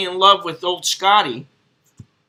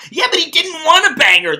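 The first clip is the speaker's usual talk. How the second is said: laughing; 10 semitones higher, 6 dB louder than usual. Real, not acted. Laughs reading a funny comment.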